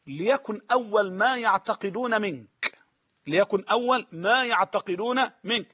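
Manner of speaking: slow, ما stressed and falling; slow emphatic quote. Retold or imitated. Caliph advising his sons' tutor, slow and weighty. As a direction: repeat the advice weightily. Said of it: "قال له".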